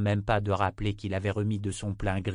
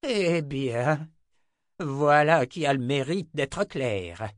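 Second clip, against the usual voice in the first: slow, tight restrained fury; barely contained anger; 6 semitones higher, 4 dB louder, slower than usual. Acted. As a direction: hold back an explosion. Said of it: "beaucoup de mal à ne pas exploser".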